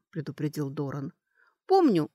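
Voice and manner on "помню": high, louder burst of surprise; pitched-up, surprised reply. A narrator's reading. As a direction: say it as if caught off guard. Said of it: "удивлённо сказала она".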